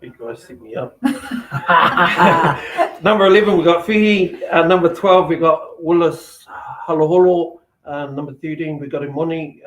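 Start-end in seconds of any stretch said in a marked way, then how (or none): 1.0-7.6 laughing. Real, not acted. Just laughed at being set up.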